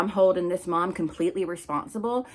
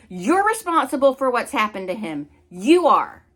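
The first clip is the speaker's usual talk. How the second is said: getting pissed off; 3 semitones higher than usual. Real, not acted. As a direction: hammer the blame home, getting angrier. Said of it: "I'm getting pissed off".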